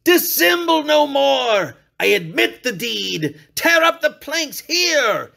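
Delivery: a madman's shouted confession; frantic confession. A narrator's reading. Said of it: "I shrieked".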